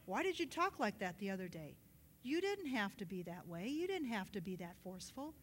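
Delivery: mildly chiding, hushed voice of God; gentle reproof. Retold or imitated. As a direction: correct them quietly, without force.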